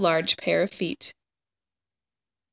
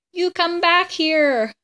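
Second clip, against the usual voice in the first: shouted; 9 semitones higher, slower than usual. A narrator's reading. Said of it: "Ernest shouted".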